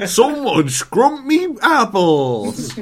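high, loud, stretched-out Cornish accent; Cornwall accent. Shown as a demonstration. Host outdoes his friends, yelling a Cornish accent. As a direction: holler it slowly in a West Country accent. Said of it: "Cornwall accent".

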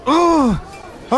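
high-pitched mock celebration; sarcastic outburst. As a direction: explode in sarcastic delight. Customer blows up sarcastically.

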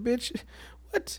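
a sharp high jab of pretend shock; incredulous bitch what. Reacting to the girlfriend picking a celebrity, in high mock disbelief. Imagined reaction to cheating answer.

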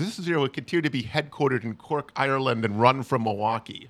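a mock-serious corporate statement in a bad Irish accent. Host mimics company spokesman from Cork, bad Irish accent. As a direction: read the company line in a hammed-up Irish accent. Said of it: "that was a horrible accent".

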